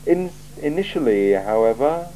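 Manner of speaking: a cool ruler weighing every word; icy, deliberate interrogator; Lord Vetinari. Acted. Vetinari lists complaints.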